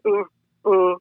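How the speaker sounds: short wordless grunts, mimicking the boss; mock grunting, lightly done; imitating a grunt. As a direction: grunt it out like a man of few words. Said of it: "you know, he grunted".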